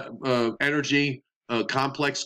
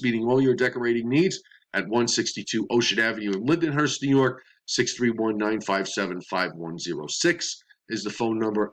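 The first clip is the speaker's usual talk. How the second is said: ad read. Acted. Sponsor ad read in weather show.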